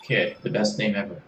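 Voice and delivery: put-on a drifting Australian accent that slips toward British; Australian accent, horribly done; attempted Australian accent. Kit introducing herself to Serge in a bad Australian accent. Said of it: "I thought you were supposed to be Australian".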